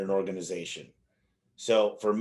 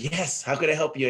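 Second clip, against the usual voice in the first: higher, lightly voiced helpful lady; 5 semitones higher than usual. Lady answers a boy at her stall, lightly imitated helpfulness. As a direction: imitate a lady offering help.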